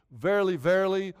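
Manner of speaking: "verily, verily" hit firmly on both words; emphasized. Shown as a demonstration. Preacher showing which Bible words get emphasized, emphatic. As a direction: lean on each "verily". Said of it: "it's supposed to be emphasized more than".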